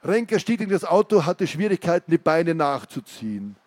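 tense reading of the escape; story narration. A narrator's reading. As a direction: read it like a thriller passage.

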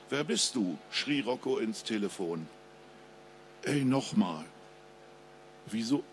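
ruhige Krimi-Lesestimme des Autors; Lesung. A narrator's reading. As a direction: spannend vorlesen, wie vor Publikum. Author reads his crime novel. (Autor liest seinen Krimi vor, ruhig und spannend)

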